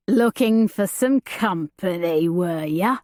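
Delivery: lightly voiced leering thug; a hint of a menacing big man; leering brute. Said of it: "The big man's leer".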